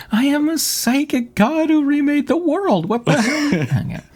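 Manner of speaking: high, put-on Irish accent god; a psychic god in an Irish accent. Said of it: "I lost my Irish accent there".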